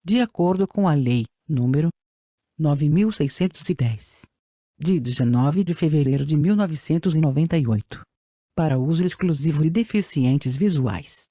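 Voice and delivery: robotic text-to-speech voice; even synthetic reading voice. Real, not acted. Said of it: "com a utilização de voz sintetizada". (voz sintetizada antiga)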